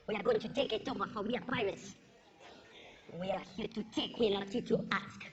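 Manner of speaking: low, grand mock-heroic pirate speech; hammed-up pirate captain rallying the crew; pompous pirate captain. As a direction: declare it like a proud pirate chief rallying his crew.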